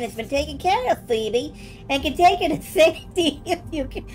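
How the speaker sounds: laughing. Real, not acted. Voice dissolves into giggles.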